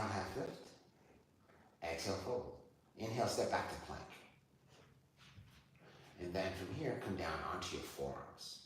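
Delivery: soft measured flow with breathing space; yoga cueing. Real, not acted. Yoga teacher leading student back down to forearms, soft cueing. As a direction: guide each movement gently on the breath.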